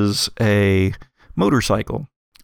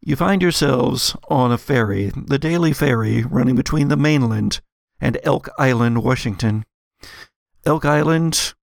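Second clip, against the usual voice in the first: measured game master narration, slightly raised pitch; scene setting; 4 semitones higher than usual. Acted. Game master introducing ferry passengers to players, scene setting.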